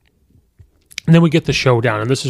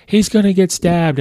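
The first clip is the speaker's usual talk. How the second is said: retold gasp of alarm from a movie seat; alarmed blurt; 7 semitones higher than usual. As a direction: call it out like you can't hold it in. Blurting out in the theater.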